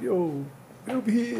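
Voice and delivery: high call across the street. Retold or imitated. Kid in Chinatown calling a fireworks seller over, in a high call across the street. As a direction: hail the seller. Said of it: "And I'd be like".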